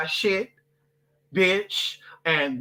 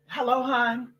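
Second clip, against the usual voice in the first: higher, honeyed voice, playing very cute; sweet fake greeting; 5 semitones higher, much slower than usual. Walking into the bank, she greets staff in a sweet cute voice. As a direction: coo the hello like a charming customer. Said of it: "be very cute and be like".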